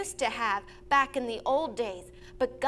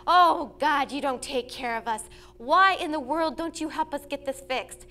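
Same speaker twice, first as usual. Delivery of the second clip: loud whiny "Oh, God" then grumbling; mock whining complaint; 4 dB louder than usual. Family griping to God about the leaky dome, in a mock whine. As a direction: complain to God like a spoiled child. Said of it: "we could have whined and complained and said".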